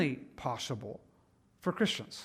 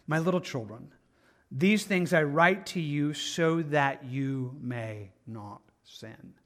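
loving, kind; 4 semitones lower, slower than usual. Acted. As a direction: read it slowly and kindly, easing down. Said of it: "Very loving, very kind".

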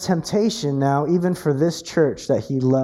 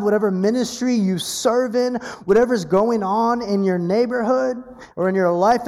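building exhortation; 5 semitones higher than usual. Retold or imitated.

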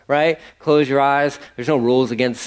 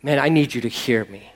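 sincere prayer; 3 semitones lower than usual. Shown as a demonstration. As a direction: pray it humbly, from the heart.

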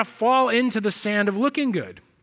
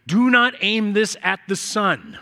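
slow label reading; slower than usual. Retold or imitated. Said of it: "the label said the same thing".

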